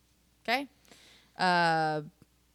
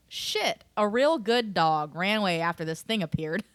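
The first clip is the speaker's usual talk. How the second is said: mildly sarcastic, as if unimpressed by the dog. Retold or imitated. Host quoting Lucky on his runaway dog, sarcastic. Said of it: "Lucky sarcastically".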